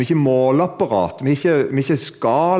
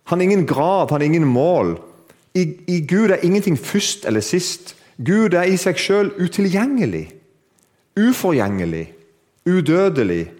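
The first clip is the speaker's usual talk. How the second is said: high proclamation, slowing into weighty phrases; preacher building a litany; exalted preaching; 6 semitones higher, 3 dB louder, slower than usual. Real, not acted. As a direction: declare it in solemn awe. Preaches at full force.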